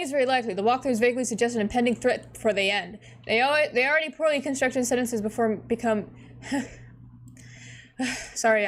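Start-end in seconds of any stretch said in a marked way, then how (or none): 3.2-6.1 tripping over words from excitement; stumbling, excited stutter. Real, not acted. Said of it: "I'm getting excited, so I'm stuttering".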